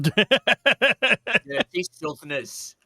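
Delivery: mock disdain. Mock insult at southerners.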